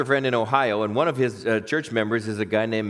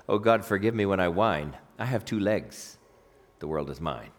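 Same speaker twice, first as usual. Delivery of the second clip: low, soft, slowing recital; humble prayer, dropping to a hush; poem recitation; 5 semitones lower, 4 dB quieter than usual. Acted. Poem's author confessing to God, low soft humble recital.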